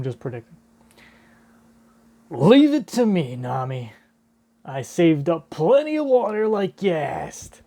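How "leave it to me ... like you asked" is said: a keen sidekick piping up; eager cartoon helper. Zeus telling Nami to leave it to him, eager cartoon helper.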